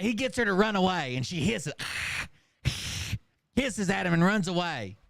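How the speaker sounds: normal talking voice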